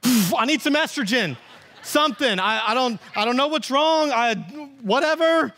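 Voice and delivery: a dad at his wits' end, half joking; flustered dad. Retold or imitated. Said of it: "I'm like".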